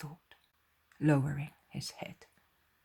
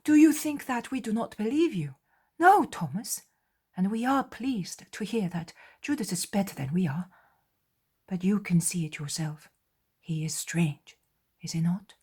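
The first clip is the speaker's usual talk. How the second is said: higher, gently arguing; questioning apostle; 5 semitones higher, 6 dB louder than usual. Acted. Andrew answering Thomas about Judas, raised.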